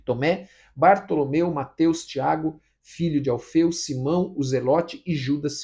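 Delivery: loud, deliberate Bible reading; scripture reading. Real, not acted. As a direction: read the passage out firmly to the congregation. Reads scripture aloud. (leitura bíblica em voz alta)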